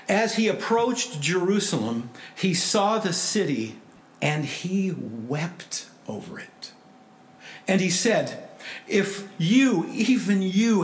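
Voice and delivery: emphatic, measured Bible reading to a congregation; scripture reading. Real, not acted. Preacher reading Luke nineteen to the church, solemn scripture reading. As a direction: read scripture out with force, easing toward the end. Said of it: "I'll just read it to you".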